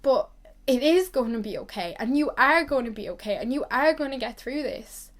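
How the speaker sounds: getting emotional, pushing on with conviction; real emotional. Real, not acted. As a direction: reassure them while getting emotional. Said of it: "I'm actually getting emotional now".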